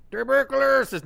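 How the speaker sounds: imitating a Brazilian teammate's accent, high and loud; mock Brazilian accent. Mocking the teammate by copying his Brazilian accent. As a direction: ham up a Brazilian accent on tuberculosis. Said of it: "You had to say it in my accent".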